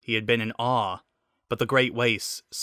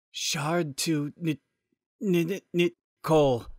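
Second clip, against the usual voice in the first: glitching robot voice; 6 semitones higher than usual. Acted. Robot voice glitching over radio.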